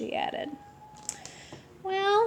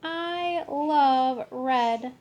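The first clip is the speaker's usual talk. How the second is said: put-on kid character voice; 2 semitones higher, much slower than usual. Kitty boy declares love of red.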